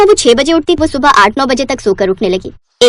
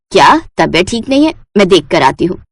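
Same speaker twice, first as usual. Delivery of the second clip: concerned mother-in-law; 6 semitones lower than usual. Acted.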